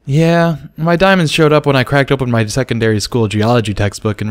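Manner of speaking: lightly voiced young mare; explaining filly. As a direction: share her story brightly. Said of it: "explained Sparkler".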